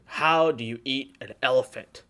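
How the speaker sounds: put-on a slow, lightly slurred drunk riddle; unhurried drunk man posing a riddle; slow drunk question. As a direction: ask it slowly like a tipsy mentor. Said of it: "he's really drunk".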